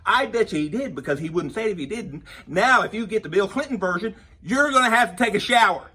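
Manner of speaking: loud, high excited rant; comic rant to the viewers. Acted. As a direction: shout the punchline gleefully. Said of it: "I'm getting all excited about this".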